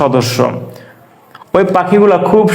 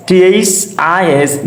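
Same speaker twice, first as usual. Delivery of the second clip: spelling out for students; slow spelling again; 2 semitones higher, slower than usual. Shown as a demonstration. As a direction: spell "টি এইচ আই এস" slowly, each letter apart.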